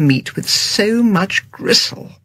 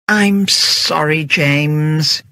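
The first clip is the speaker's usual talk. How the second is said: miserable; much slower than usual. Acted. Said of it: "said Agatha miserably".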